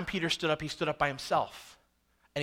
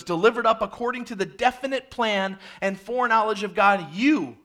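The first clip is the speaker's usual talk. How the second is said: loud, driving proclamation, raised in pitch; preached scripture reading; 4 semitones higher, 5 dB louder than usual. Acted. Peter testifies about Jesus to the crowd, forceful proclamation. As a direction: build toward a pointed accusation.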